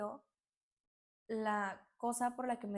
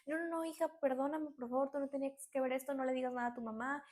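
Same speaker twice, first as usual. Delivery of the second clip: flustered pleading; 3 semitones higher than usual. Retold or imitated. Grandmother caught with the photos begs her granddaughter, flustered pleading. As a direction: imitate a flustered grandmother begging forgiveness. Abuela nerviosa ruega a su nieta.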